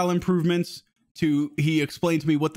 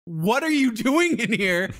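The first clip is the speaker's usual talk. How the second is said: imitating an exasperated wife, higher and drawn out; slow, higher-pitched demand, mock incredulous; 6 semitones higher, slower than usual. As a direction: imitate a fed-up wife checking in. Wife checking on him, kids screaming.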